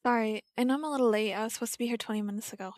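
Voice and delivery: fast, tumbling apology; nervous late girl rushing her excuse; rushed apology. Acted. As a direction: blurt it out quickly.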